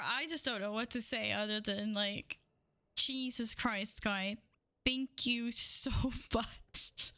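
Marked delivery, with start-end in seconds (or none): 4.8-7.1 slow thanks broken by a laugh; overwhelmed, laughing gratitude. Real, not acted. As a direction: laugh helplessly through a drawn-out thank you. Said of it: "I was just laughing now".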